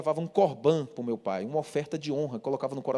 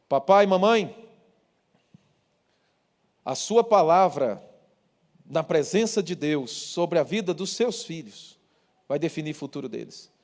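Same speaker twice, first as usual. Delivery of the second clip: preaching exhortation; 3 dB louder than usual. Acted.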